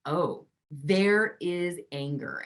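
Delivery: slow, calm "Oh, there is anger"; note it gently, like an observer; calm noticing. Shown as a demonstration. Teacher showing how to name anger calmly. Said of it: "you go".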